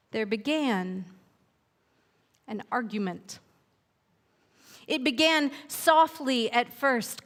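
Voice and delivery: gentle read-aloud storyteller pacing; unhurried picture-book narration with lingering pauses; storybook narration. A narrator's reading. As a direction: read it like a bedtime tale to children.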